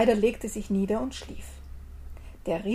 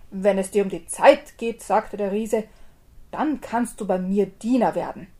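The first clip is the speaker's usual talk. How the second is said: a hint of a big gruff giant, a bit louder; bossy giant offering a job; lightly voiced giant; 5 dB louder than usual. Giant offers the tailor service, lightly gruff.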